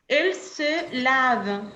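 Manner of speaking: "él se lava" said slowly in Spanish; slow down on the gloss. Shown as a demonstration. ("él se lava" dicho despacio)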